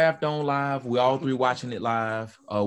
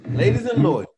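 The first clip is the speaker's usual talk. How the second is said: mock ring announcer; 6 semitones higher, 7 dB louder than usual.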